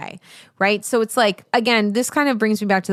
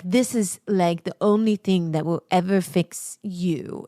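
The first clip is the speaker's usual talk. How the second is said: slow, put-on sales voice; drawn-out parody of a marketer; fantasy marketing pitch; slower than usual. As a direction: pitch it as a mock miracle cure. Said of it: "fantasy market you and just be like".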